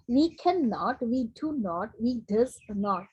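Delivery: "not" given as a full, separate word; careful learner-style full forms, no contractions; full uncontracted forms. Shown as a demonstration. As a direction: spell out "do not" and "does not" unjoined. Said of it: "ऐसे बोलते हैं".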